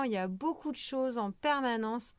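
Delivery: talking through hiccups. Real, not acted. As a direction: hiccups breaking the words. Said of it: "pardon, j'ai le hoquet". (avec le hoquet)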